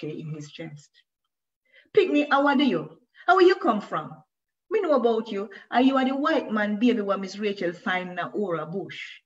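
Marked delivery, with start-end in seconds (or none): 1.9-9.2 high, loud patois bully voice; bully taunt. A narrator's reading. Schoolboy bully mocking Moshe in patois, high and loud. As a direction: sneer and push him around.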